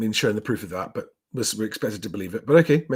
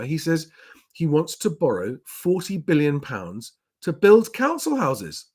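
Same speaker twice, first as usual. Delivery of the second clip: normal talking voice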